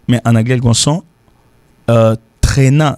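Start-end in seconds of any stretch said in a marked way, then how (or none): 2.4-2.9 traînant stretched slowly; traînant, lengthened for teaching; drawn-out word. Shown as a demonstration. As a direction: drag out traînant to show a long sound. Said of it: "ça veut dire on sent qui long".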